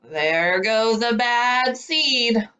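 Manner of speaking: slow, mild mumbled gossip; mumbling seeds. Retold or imitated. Seeds gossip when he's not listening, slow mock mumble. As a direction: drag it out under your breath, lightly. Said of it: "they mumble".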